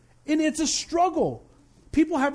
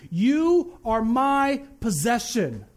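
God speaking; much slower than usual. Acted. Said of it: "God ... is saying".

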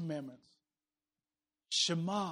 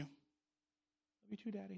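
put-on small child; 3 semitones higher, 13 dB quieter, much slower than usual. Child voiced in the story.

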